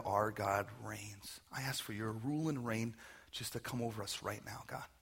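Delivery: unhurried, reverent pastoral prayer. Real, not acted. Pastor leads standing congregation in prayer for forgiveness, reverent.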